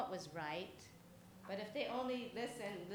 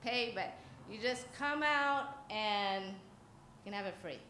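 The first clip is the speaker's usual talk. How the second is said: put-on creepy child catcher; 4 semitones higher than usual. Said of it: "He's saying".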